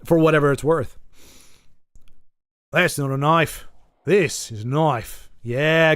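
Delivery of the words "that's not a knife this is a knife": drawn-out Australian movie-hero line; lightly voiced Australian accent, slow finish; Crocodile Dundee. Streamer quoting an Australian film hero, lightly mimicked Australian accent. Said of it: "Crocodile Dundee".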